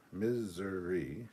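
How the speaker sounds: "Missouri" slowly as "Miz-ZUR-ee"; drawn-out pronunciation. Shown as a demonstration. Streamer tries the two state pronunciations, drawn-out pronunciation. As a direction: stretch "Missouri" out, ending in ee. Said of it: "two ways to pronounce Missouri".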